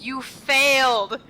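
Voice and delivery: slow, drawn-out mock taunt; sing-song it with a laugh breaking through; game over screen. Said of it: "a giant screen that says".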